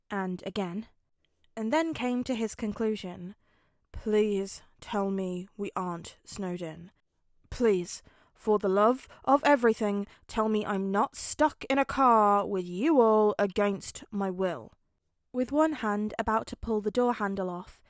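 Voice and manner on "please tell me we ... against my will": groaning plea. Acted. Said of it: "groaning in practical agony".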